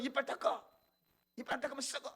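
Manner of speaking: high, loud mock telling-off; scolding mother. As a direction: order the child about like a cross mother. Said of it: "하고 답을 주면서 혼내잖아요".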